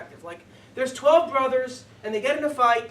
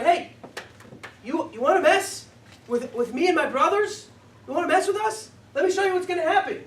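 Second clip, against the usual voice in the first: louder tough-guy challenge; challenging threat; 4 semitones higher, 4 dB louder than usual. Retold or imitated. Yehuda daring Yosef, louder and menacing. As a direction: square up to a king.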